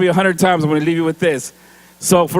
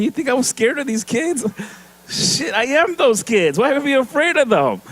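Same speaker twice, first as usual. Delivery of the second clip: higher, laughing disbelief at the idea of fear; laughing retort; 6 semitones higher than usual. Retold or imitated. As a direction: scoff with a laugh at the school staff. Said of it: "And I start laughing".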